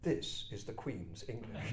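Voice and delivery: lightly haughty retold retort; understated mock Queen's English hauteur; mock-indignant dignity. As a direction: draw yourself up, mildly pompous. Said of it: "drew myself up to my full height".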